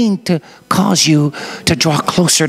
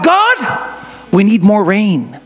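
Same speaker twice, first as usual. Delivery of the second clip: wheat farmer pleading; 2 semitones higher, slower than usual. Acted. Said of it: "he's crying out to God".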